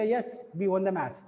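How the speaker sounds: MATCH falling at the end; answering statement. Shown as a demonstration. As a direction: confirm it, dropping on MATCH. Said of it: "तो बोलेगा".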